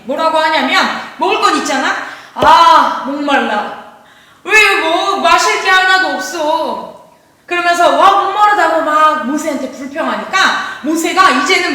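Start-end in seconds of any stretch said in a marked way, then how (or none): 2.3-6.9 loud "ah", then a drawn-out whine of complaint. Acted. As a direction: act out thirsty grumbling, stretching the last words. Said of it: "맨날 맨날 원망불평해". (투덜대며 길게 늘여 말하는 불평)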